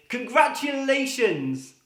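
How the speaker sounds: high, loud and slow; drawn-out congratulations. Acted. Nurse greets third father, slow and high. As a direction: stretch the word out gleefully.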